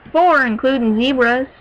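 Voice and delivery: lightly put-on heavy pony accent; a pupil's heavy accent, lightly acted; heavy country-pony accent. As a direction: answer with a touch of a heavy accent. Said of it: "said in a heavy accent".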